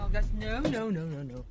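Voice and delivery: loud, high-pitched no no no at the dog; urgent protest. Real, not acted. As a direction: stop the dog fast, calling out. Dog misbehaving on camera.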